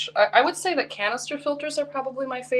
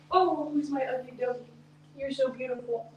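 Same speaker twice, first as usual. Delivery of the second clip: talking to a dog; 3 semitones higher, 5 dB quieter than usual. Real, not acted. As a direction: coo at the puppy. Cooing at her pug.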